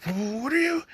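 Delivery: high, startled gasp of a question; high startled blurt. Retold or imitated. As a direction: blurt it out in shock. Startled girl questions him.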